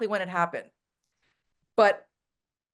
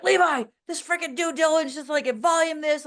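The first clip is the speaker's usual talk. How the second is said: high, exasperated mock complaint; mock frustrated rant; 8 semitones higher, 3 dB louder than usual. Complaining to Levi about due diligence, high exasperated rant. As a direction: vent like you're drowning in paperwork. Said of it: "I'm like".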